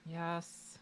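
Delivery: breathy, whispered sigh of a yes; resigned acted sigh. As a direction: admit it on a sigh. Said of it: "sighs and is like".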